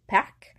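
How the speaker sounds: PARC ending on a clear K sound; final C pronounced. Shown as a demonstration. Teacher repeating the example word, final C pronounced. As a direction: close parc on a crisp K. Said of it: "so there's the C".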